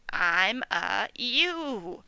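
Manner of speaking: put-on slow bleat-like old sheep voice; old ewe bleating. Old ewe naming herself, slow bleating voice. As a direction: drag it out like a tired ewe.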